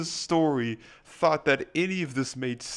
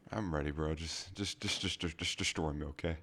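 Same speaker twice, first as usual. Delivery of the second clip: bracing quietly; 9 semitones lower, 10 dB quieter than usual. Real, not acted. Bracing for the bad story.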